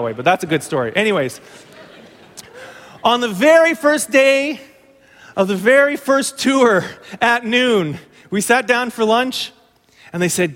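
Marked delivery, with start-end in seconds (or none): 3.0-9.5 slow, higher, stretching each word out; slow suspense telling, very stretched; dramatic slow build. Real, not acted. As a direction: draw the listener in, savouring very. Builds tension before the cave.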